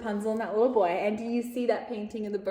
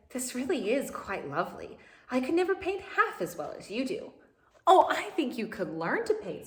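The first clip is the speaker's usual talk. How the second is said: lively storybook reading voice with lifted character lines; animated read-aloud for young listeners; reading to children. A narrator's reading. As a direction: read it like a picture book to a class.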